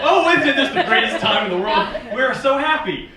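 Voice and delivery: loud, high, overdone delight; hammed-up celebration; mock gushing. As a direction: gush with fake happiness. Mock gushing about friends having babies.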